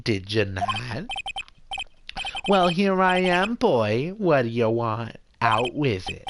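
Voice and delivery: swooping, self-important Jewish mother. Acted. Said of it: "I'll definitely do that voice a little bit".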